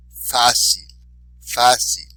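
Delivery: Fácil with a loud "Fá"; stress on accented syllable. Shown as a demonstration. Teacher modelling for repetition, Fácil stressed on "Fá". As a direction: punch the first syllable of Fácil. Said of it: "be sure to emphasize the accented syllable".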